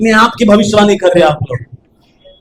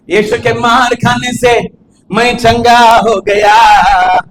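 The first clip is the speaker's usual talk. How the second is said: mock testimony; much slower than usual. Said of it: "नाटक कर".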